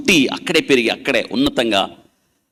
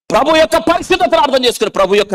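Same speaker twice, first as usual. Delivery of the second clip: much higher, loud preaching cry; 13 semitones higher, 5 dB louder than usual. Acted. Preacher proclaims the Lord's holiness to the church, loud and high.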